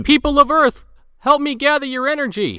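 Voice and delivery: high, loud booming alien overlord; booming arrogant alien overlord. Retold or imitated. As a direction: boom it out like a cosmic villain. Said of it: "tries a spirit bomb real quick".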